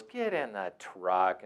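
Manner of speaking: slow, lightly voiced cowboy command; a hint of a gruff cowboy. Cowboy driver ordering the kid in, slow and calm. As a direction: say it slow and unbothered, like an old cowboy.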